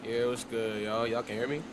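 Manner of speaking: wind tunnel. Real, not acted. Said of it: "kinda sound like you're in a wind tunnel".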